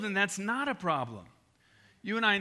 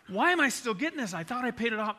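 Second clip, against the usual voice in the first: panicked question to the loan company; freaking out; 5 semitones higher than usual. Retold or imitated. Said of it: "I called them freaking out".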